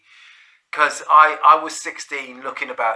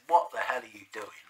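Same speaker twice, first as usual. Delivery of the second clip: whispered quote; 6 dB quieter than usual. Retold or imitated. Cops questioning him in van.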